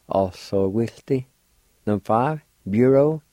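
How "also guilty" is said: slow blended demo. Shown as a demonstration. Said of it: "like this".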